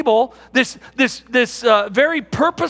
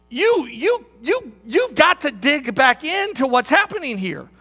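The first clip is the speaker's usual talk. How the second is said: excited believer; 2 semitones higher than usual. Retold or imitated. Excited young believer, raised voice.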